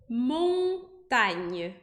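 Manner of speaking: montanha said slowly with a plain French a, no nasal. Shown as a demonstration. Teacher modeling French montanha for Brazilian students. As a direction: say montanha the French way, open a and no an sound. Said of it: "Montanha é montanha em francês".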